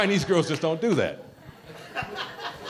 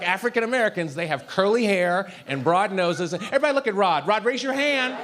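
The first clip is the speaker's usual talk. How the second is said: mock teacher lecture; 3 semitones higher than usual.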